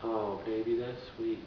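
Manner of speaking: put-on lightly cooing to a girlfriend. Shown as a demonstration. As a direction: demonstrate a tender sweetheart voice. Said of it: "you have your girlfriend voice".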